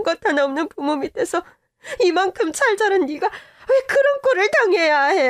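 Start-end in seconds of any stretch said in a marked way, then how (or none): 2.0-5.2 indignant. Acted. Mother indignant.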